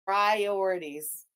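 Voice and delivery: slow, dragged-out sarcastic word; sarcastic drawl. Real, not acted. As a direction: drag Priorities out mockingly.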